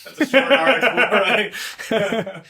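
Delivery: very high, very loud squeal; squeaky shout. Pretend.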